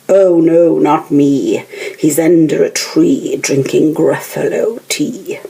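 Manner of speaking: loud mouse. Acted. Mouse answers.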